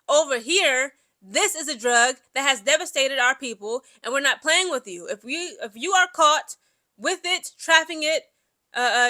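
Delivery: stern, emphatic warning; harsh tone. Acted. Country warning a foreign visitor about its drug laws, harsh tone. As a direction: lay down the law, firmly and harshly. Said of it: "a harsh tone".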